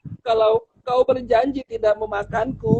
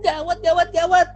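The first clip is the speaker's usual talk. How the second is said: panicked mouse; 2 semitones higher than usual. Acted. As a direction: gasp it out, scared little mouse. Tikus panik menginjak ekor singa. (tikus kecil yang panik, suara tinggi ketakutan)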